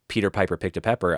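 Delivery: P and B bursts into the mic; popping plosives. Shown as a demonstration. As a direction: spit Peter Piper straight into the mic. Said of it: "I'm, like, right over it".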